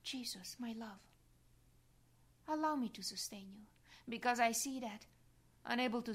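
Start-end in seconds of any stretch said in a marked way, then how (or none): 0.0-3.7 tender whisper. Real, not acted. Tender address to staggering Jesus.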